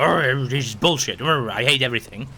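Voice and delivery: lightly voiced grumbling grump; big old grump. Gamer mocking himself as a big old grump, grumbling. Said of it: "a big old grump and be like".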